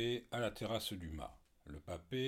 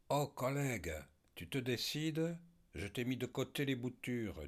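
Attilio's letter voice; 3 semitones higher than usual. Acted. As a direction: sell it like an eager pal pushing a deal. Narrator reads Attilio's letter.

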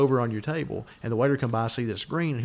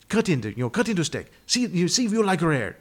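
put-on light Brazilian accent, higher by the end; a hint of a Brazilian waiter urging a taste; lightly put-on Brazilian accent; 5 semitones higher than usual. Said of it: "killer Brazilian accent".

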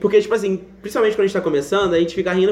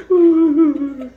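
high wobbly half-sob whimper; a laughing, trembling whimper; 6 semitones higher, 4 dB louder than usual. Retold or imitated. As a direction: quiver the lip on a mock cry. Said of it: "tem aquela tremida na boca".

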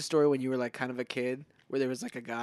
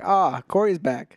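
excited greeting; 4 semitones higher, 10 dB louder, slower than usual. Retold or imitated. Locals greeting returning friend.

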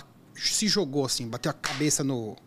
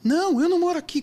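much higher and louder, yelled; retold shouting; 12 semitones higher, 5 dB louder than usual. Drugged girl insists to the driver, yelling. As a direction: cry out the denial at the driver. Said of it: "Começou a gritar".

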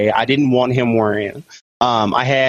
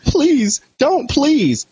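high, whimpering imitation of begging; hammed-up crying man begging for mercy; mock crying plea; 14 semitones higher, much slower than usual. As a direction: plead in an exaggerated tearful squeak. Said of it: "Jared is dangling off the ground crying".

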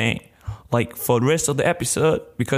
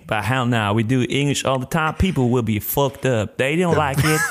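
lightly put-on American street accent; put-on gangster English accent. Co-host being honest with y'all, gangster accent. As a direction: talk in a mock gangster accent. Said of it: "are you going to do this accent".

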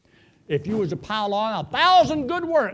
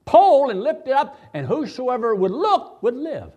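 commanding God voice; 7 semitones higher, 4 dB louder than usual. Retold or imitated. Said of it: "So he told him, says".

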